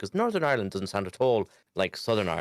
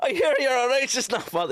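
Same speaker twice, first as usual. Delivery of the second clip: put-on Irish accent, higher and louder; 5 dB louder than usual. Quoting a favourite line from Father Ted: Father Ted Irish accent. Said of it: "It's my favorite fucking lines".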